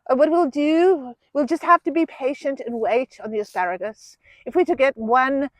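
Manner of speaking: David Attenborough. Pretend. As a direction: play it like a wildlife film narrator. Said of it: "David Attenborough accent".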